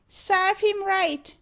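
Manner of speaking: slow, high, loud bird screech; screaming magpie. A narrator's reading. Magpie jeers at the scolded assistant, screaming. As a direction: squawk each word like a parroting bird. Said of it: "screamed Meg".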